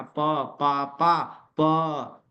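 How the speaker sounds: "प, पा, पा, प" drilled as separate P syllables; clear P sound. Shown as a demonstration. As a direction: sound out "प, पा, पा, प" one by one with unvoiced lips-popped P. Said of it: "प बोलना". ("प, पा, पा, प" में प का अलग-अलग साफ़ उच्चारण)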